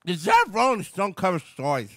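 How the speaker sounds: put-on lightly done Boston mayor accent. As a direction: keep the Boston mayor read going. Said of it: "read it like him with the Boston accent".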